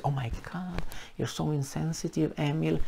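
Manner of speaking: soft, breathy, scandalised oh my God; mock offended gasp. Critics scolding Emil for insensitive terms, mock shocked. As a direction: play the easily offended critic. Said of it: "terms that now is".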